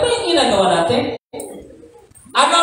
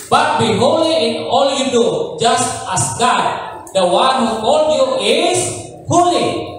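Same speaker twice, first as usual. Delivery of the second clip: scripture reading; 3 semitones higher, slower than usual. Acted.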